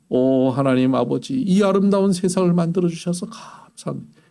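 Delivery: mock pious prayer. Preacher mocking the proper prayer people think God wants, falsely pious. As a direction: pray in an overly proper, churchy way. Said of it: "이래야지".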